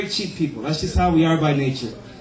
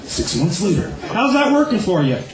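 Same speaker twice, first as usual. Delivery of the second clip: Doctor Phil; 4 semitones higher than usual. Acted. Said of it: "Doctor Phil is Polonius".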